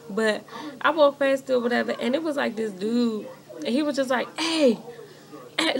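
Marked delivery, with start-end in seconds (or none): 4.4-5.8 higher mock catcall, slightly raised; retold yell. Man hollering at her on the street, retold mock yell. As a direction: imitate a man calling out, holding back the volume. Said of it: "he was yelling".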